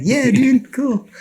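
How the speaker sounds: high, loud surfer-dude imitation; casual dude voice. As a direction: play the laid-back rafter. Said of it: "fucking rafting guys".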